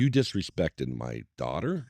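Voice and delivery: low, slow accusation; Godfather talk. Retold or imitated. Father-in-law defends his daughter, low slow Godfather-style talk. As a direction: imitate a mob boss, measured and menacing. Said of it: "He's, like, doing the Godfather talk".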